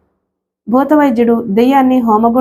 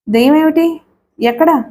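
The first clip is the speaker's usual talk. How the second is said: sudden higher jolt of alarm; startled question; 5 semitones higher than usual. Acted. Wife startled by husband's ghost cry, higher alarmed question. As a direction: jump at the word, asking fast. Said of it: "అదిరిపడి అడిగింది సమీర".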